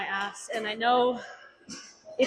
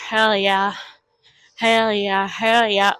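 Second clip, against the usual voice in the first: hype; 2 semitones lower, 7 dB louder, slower than usual. Real, not acted. Hyping himself up.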